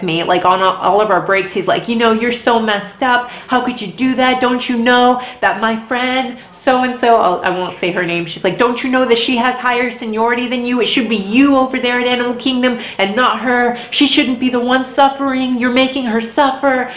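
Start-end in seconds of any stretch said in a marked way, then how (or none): 1.9-7.1 higher, indignant retold scolding; lightly voiced preachy coworker; mock scolding coworker. Coworker lectures her on break. 8.6-16.9 higher, indignant retold scolding; lightly voiced preachy coworker; mock scolding coworker. Coworker lectures her on break.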